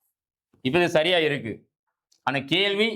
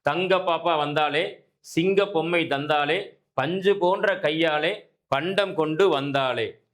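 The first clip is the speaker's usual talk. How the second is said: slow, measured verse reading; children's rhyme recitation. Acted. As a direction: recite it line by line, drawing out the words.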